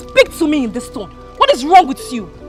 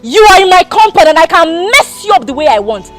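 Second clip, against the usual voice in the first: angry; 5 dB louder than usual. Acted. Madam insults him, shouting.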